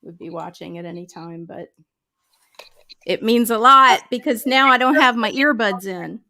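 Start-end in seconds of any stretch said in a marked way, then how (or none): 3.1-6.2 whispering. Real, not acted. Whispered into mic.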